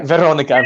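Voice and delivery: "Veronica" with a lightly rolled "r". Shown as a demonstration. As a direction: practise "Veronica", just flicking the R. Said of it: "Very light roll".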